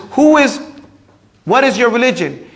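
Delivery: high, loud stern question; angel's demand. Acted. Angel questioning the dead man, high and loud. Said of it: "Then he says".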